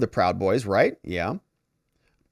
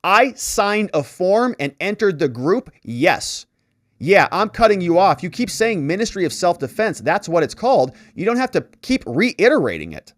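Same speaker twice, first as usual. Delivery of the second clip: raised, louder curt retort, annoyed; impatient witness waving off repeated questions; 5 semitones higher, 4 dB louder than usual. Retold or imitated. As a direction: cut the prosecutor off, irritated and curt. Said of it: "Robbins is being very curt".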